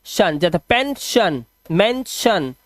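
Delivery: "पेंशन", "मेंशन" broken slowly before a clear "शन"; pronunciation demo. Shown as a demonstration. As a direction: set off the ending "शन" in each word. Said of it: "दोनों का उच्चारण सिर्फ शन".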